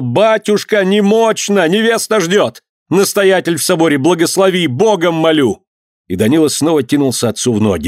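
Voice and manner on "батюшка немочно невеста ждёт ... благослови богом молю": высоко, надрывно умолять; кричать, умоляя отца; отчаянная мольба криком. A narrator's reading. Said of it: "закричал". (сын кричит отцу, моля о благословении)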